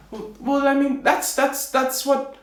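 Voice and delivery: high, stammering little man; flustered tailor. Acted. Tailor defending himself to the king, flustered. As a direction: stumble and repeat in a high voice.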